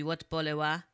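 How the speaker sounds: ordinary delivery, nothing marked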